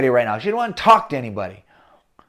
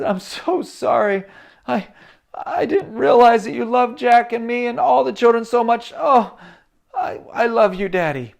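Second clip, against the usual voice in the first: tearful apology; 8 semitones higher, 5 dB louder than usual. Acted. Daughter hugging her father, apologizing tearfully. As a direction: plead sorry through tears. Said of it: "she was starting to cry".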